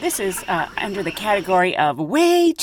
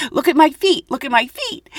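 booby call; 6 semitones higher than usual. Retold or imitated. Demonstrating the call to steward.

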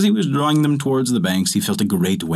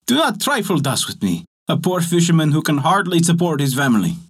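lightly raised, higher pleading voice; a poor man complaining to fate, pitched up; fisherman crying out; 6 semitones higher than usual. Acted. Poor fisherman cries out to fortune, a higher plea. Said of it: "he cried".

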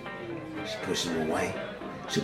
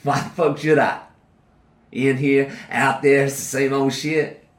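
furious shout; 6 semitones higher, 6 dB louder than usual. Acted. Prisoner rages at victim's father.

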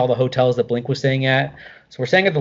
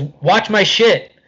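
"Watch my shit." drawn out very slowly, each word spaced; slow repeat; 6 semitones higher, much slower than usual. Retold or imitated. Mark repeating himself to a friend who didn't catch it, slow and deliberate on "Watch my shit.". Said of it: "And he goes".

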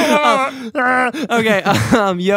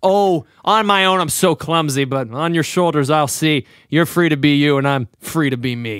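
a light hint of a smuggler, lower; lower, lightly voiced cocky rogue; Han Solo; 5 semitones lower than usual. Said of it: "Do that, uh, Han Solo".

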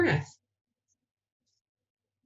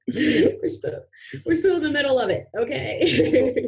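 higher, fast, laughing exasperation; exasperated; 7 semitones higher than usual. Real, not acted. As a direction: blurt it out in disbelief. Exasperated about pandemic, voice rising.

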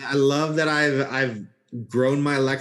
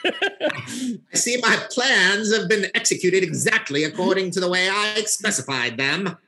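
lightly put-on transatlantic accent; old Hollywood transatlantic accent, slightly higher; 4 semitones higher than usual. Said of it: "it's more the transatlantic voice".

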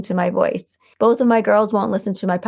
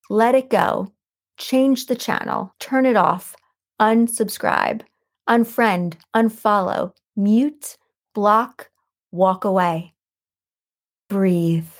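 slow, deliberate, with a pause after each phrase; measured list of commands, each given room to land; inspirational quote reading; slower than usual. Acted. Host reading a quote for listeners to write down, slow and deliberate.

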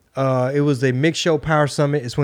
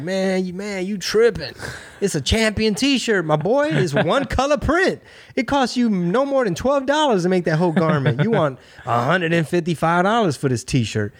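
tipsy mock scolding; 5 semitones higher than usual. To Virgil about overpriced t-shirts, tipsy higher ribbing. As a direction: tease him like a tipsy guy calling out prices. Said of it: "Like, I was drunk. So I'm just like".

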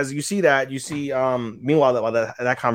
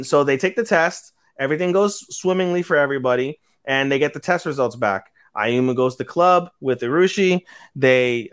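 ordinary talk

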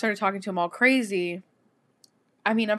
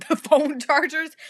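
higher, slow, laughing through it; laughing disbelief; 7 semitones higher, 5 dB louder, slower than usual. Real, not acted. Outraged at Walmart locking up chargers, laughing. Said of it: "I can't".

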